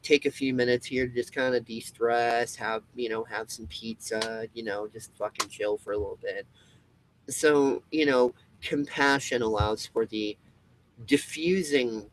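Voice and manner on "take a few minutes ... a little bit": 1 easygoing reassurance. Retold or imitated. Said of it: "the other person's like".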